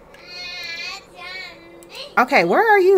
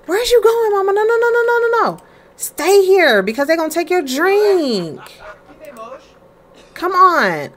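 put-on high baby talk; 9 semitones higher than usual. Mother pleading high with her toddler to stay. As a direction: call her back in a high coo.

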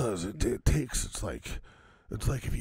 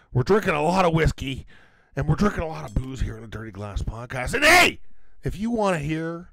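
rising to much higher louder shouts; hammed-up outro; 3 semitones higher, 4 dB louder than usual. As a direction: sell the podcast like a wrestler.

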